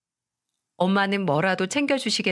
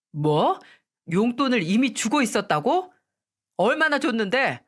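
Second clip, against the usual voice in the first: startled accusation; 4 semitones higher than usual. Acted. Husband learns of allowance.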